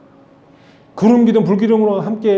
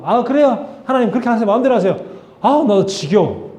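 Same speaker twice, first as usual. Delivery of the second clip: mock exasperation; 5 semitones higher than usual. Preacher imagining himself as Moses.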